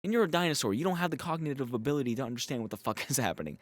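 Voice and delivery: high mocking voice of a know-it-all dinosaur; sarcastic voice for the dino. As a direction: speak for the dino as if it brags. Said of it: "Smoothie's just like".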